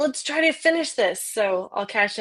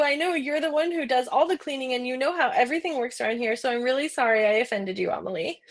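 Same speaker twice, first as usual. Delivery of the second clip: higher, fluttery apology with a laugh; mock ashamed; 3 semitones higher than usual. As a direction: grovel in exaggerated shame. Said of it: "awash in shame".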